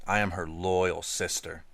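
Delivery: "loyal" drawn out slow and long; stress on loyal. A narrator's reading. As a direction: linger on "loyal". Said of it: "spending a long time on the word loyal".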